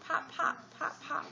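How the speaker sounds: crisp little pops; cork popping. Shown as a demonstration. Reading a picture book, popping like a cork. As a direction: pop it like a cork. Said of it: "He can sound like a cork".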